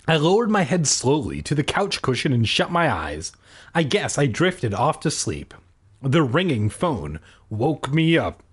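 measured audiobook read; story narration. A narrator's reading. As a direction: narrate it steadily, line by line. Reads the story aloud.

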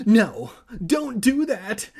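loud, high panicked cry; scream. A narrator's reading. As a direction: yell to stop him in alarm. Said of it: "Evan screamed".

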